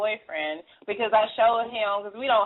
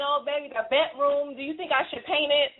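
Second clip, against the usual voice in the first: imitating a smooth-talking ex, higher; mock seductive ex; 5 semitones higher than usual. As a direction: coax her in, hamming it up. Voicing the ex, seductive.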